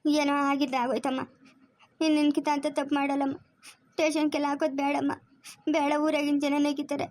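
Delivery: subdued, weepy appeal; tearful pleading. Acted. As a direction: plead while crying. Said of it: "ಅಳ್ಬೇಡ".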